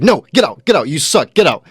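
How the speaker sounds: high, loud shouts of get out; retold furious shout. Owner screaming at the homeless man, mock furious shout. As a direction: blast him out the door. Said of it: "And he's like".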